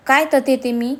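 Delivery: mocking stammer. A narrator's reading. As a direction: throw the stammer back at them. Mocks her stammer back at her. (तिच्या अडखळण्याची नक्कल करत, चिडून)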